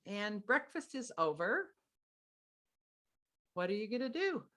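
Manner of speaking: sweetly matter-of-fact parent, pitch a little lifted; lightly put-on sweet parent voice; sweetest voice. Shown as a demonstration. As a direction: hand the problem back sweetly. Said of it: "you say it in your sweetest voice".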